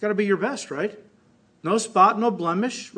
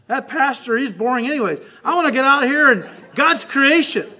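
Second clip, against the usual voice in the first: whiny churchgoer; 3 dB louder than usual. Retold or imitated. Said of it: "Like people today".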